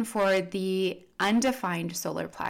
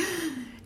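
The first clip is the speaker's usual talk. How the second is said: a sharp, high gasp of overwhelm; 10 semitones higher, 5 dB quieter than usual. Retold or imitated. Empath walking into a crowded room, sharp overwhelmed gasp. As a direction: suck in air as if the room hits you. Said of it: "they're like".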